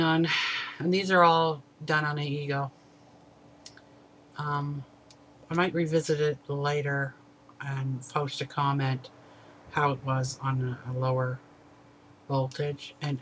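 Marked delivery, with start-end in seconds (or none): 4.4-13.2 talking around mouthpiece; vape pen in mouth. Real, not acted. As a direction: lips partly closed on pen. Seen 1: Pen tip held at lips while talking; removed by 5.8.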